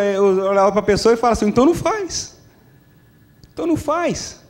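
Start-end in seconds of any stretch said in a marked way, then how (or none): 1.5-4.4 voz bem aguda, imitando uma resposta óbvia; resposta do Senhor. Acted. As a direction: responder à oração em tom alto e fino, sem gritar. God's curt answer to prayer. (o Senhor respondendo simples, em voz aguda de brincadeira)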